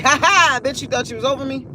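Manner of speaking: mock gloating taunt; lightly acted gotcha jeer; taunting heartbreak. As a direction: crow it like a bully who got the last laugh. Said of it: "smack you in your face like".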